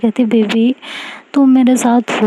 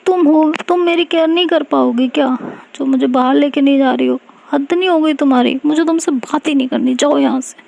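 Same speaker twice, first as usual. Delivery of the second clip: sulky and hurt, pitched higher; sulking; 5 semitones higher than usual. Acted. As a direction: pout and push her away. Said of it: "मुंह बना के बैठ जाती है". (रूठकर बोलना)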